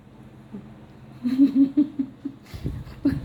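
a high burst of laughter; breathy giggle. Real, not acted. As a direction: laugh at the cat fleeing. Mother laughing at the cat.

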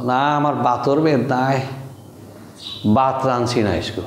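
everyday Sylheti Bengali, unaspirated bh; casual Sylheti accent; Sylheti dialect. Shown as a demonstration. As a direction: demonstrate a sentence in Sylheti. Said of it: "Sylheti ভাষায় কি বললাম".

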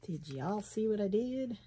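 light Southern twang on y'all; Southern accent. Real, not acted. Crafter asks viewers if they saw her mishap, Southern accent. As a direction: slip into a slight Southern accent. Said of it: "where that Southern accent comes from".

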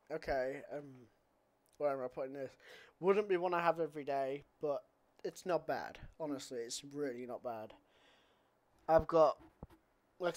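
speaking between sips; talking with shaker at lips. Real, not acted. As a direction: lips near bottle spout. Seen 2: Shaker spout held at lips while speaking, not lowered until after.

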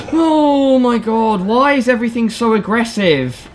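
high gasping panic; scared gasp. Real, not acted. Startled by monster.

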